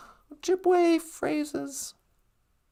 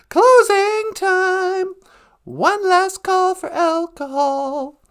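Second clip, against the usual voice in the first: bartender last call; 4 semitones higher, 4 dB louder, slower than usual. Acted. Bartender calling closing.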